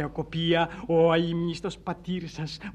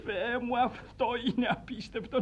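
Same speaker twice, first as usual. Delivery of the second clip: higher, marvelling exclamation; overcome with emotion; 4 semitones higher than usual. Acted. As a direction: gasp in moved disbelief. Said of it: "δια την συγκίνησή μου".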